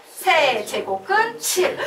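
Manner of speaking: slow, emphatic "세제곱근 칠"; class-drill chant of "세제곱근 칠"; demonstrated reading. Shown as a demonstration. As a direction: stretch each part of "세제곱근 칠". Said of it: "다시 한번".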